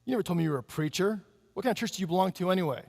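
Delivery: quick, needling mock jab; nasty voice. Bar owner challenging the preacher, fast and nasty. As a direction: rattle off the questions with a sneer. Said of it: "kind of in a nasty voice".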